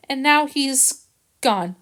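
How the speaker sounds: slow, sorrowful and hushed; slow grief. Acted. Jill to Harrison, realising Chester is dead, grieving. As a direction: let the loss sink in.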